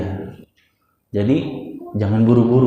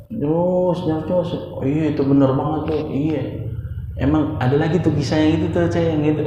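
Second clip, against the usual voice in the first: higher-pitched, chiming-in pupil; over-eager student; 5 semitones higher than usual. Acted. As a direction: butt in eagerly on the teacher, voice raised in pitch. Acting an over-eager student interrupting teacher.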